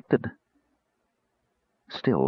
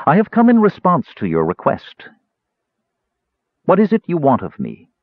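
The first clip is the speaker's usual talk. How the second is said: higher, louder mocking question; 8 semitones higher, 4 dB louder than usual. A narrator's reading. Mage mocking the cleric, higher and louder. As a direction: needle her with polite mockery. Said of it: "he was laughing at her".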